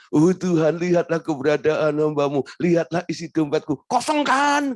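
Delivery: mock prayer ending in a wide-eyed demand; preacher mocks a believer demanding God look at the empty wallet; glaring demand. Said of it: "itu sambil melotot gitu".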